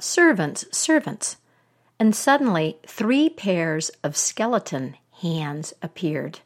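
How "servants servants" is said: summoning servants with a high call; a witch summoning her servants, calling high. Acted. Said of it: "snapped her fingers and called out".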